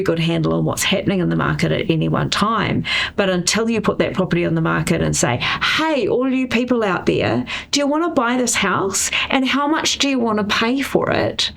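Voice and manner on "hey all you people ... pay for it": high, raised mock call-out; calling out to the crowd. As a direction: hail everyone like a market crier. Seller calling out to buyers.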